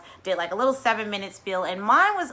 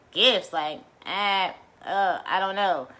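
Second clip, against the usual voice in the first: imitating stressed family; slower than usual. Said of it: "they were a little stressed".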